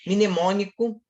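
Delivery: "mnemônico" whispered clearly; whispered word. Shown as a demonstration. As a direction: breathe out "mnemônico" unvoiced. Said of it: "o M N do mnemônico". ("mnemônico" sussurrado)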